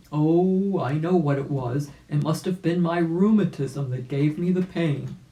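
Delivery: lightly voiced old rabbit, sure of himself; old rabbit realizing. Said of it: "said the old gentleman rabbit".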